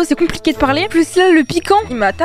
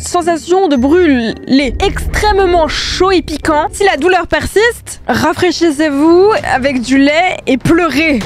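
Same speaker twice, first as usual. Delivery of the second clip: slow, deliberate warning label read; slow dramatic reading; slower than usual. Shown as a demonstration. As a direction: read the label slowly and gravely. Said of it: "Je vais lire".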